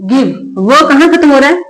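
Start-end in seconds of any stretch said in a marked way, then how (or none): 0.0-0.5 lower repeat. Shown as a demonstration. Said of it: "क्या लिखा है?".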